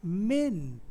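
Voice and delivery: मेंट drawn out as a separate beat; isolated syllable. Shown as a demonstration. Teacher counting syllables of impediment, isolated syllable. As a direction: stretch मेंट alone, set off by pauses. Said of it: "एक ये syllable हो गया".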